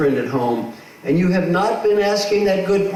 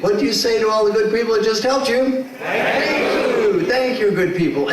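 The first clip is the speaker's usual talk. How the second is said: a bigger, more emphatic "Thank you"; more enthusiastic thank you; 6 semitones higher, 3 dB louder than usual. Shown as a demonstration. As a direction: lead the room in a warmer thanks. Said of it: "Let's try again".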